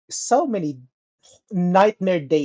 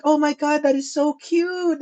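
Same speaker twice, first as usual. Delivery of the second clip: put-on gushing girl; 9 semitones higher than usual. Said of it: "she was like".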